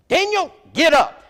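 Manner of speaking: high, loud falsetto call to the husband; mock shrill wife yelling. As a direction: bark it like a bossy wife waking her man. Brenda yelling at her husband.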